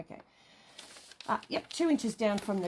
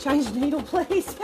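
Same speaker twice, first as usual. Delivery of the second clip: pushy machine voice; 7 semitones higher, 10 dB louder than usual. Pretend. Voicing the pushy sewing machine.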